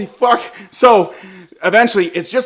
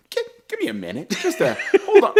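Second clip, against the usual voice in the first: soft, higher, halting voice; hushed stalling; 7 semitones higher, 6 dB quieter, faster than usual. Retold or imitated. Son asking his new girl to wait, hushed. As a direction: imitate awkwardly putting someone off.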